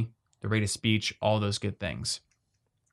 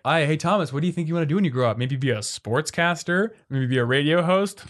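higher, quick mock questions with rising ends; imitating teasing parents; 4 semitones higher than usual. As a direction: tease the mumbling kid with fake career suggestions. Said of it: "they would make fun of me".

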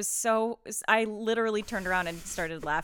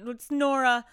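put-on kid voice; 6 semitones higher, 8 dB louder, slower than usual.

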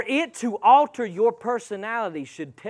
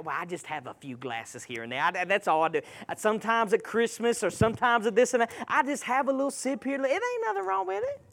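mock excuse-maker; 7 dB quieter, faster than usual. Preacher mimics people excusing a few glasses, soft mock excuse-making. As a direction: play down the habit, quietly imitating a drinker. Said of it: "this is what everybody's at".

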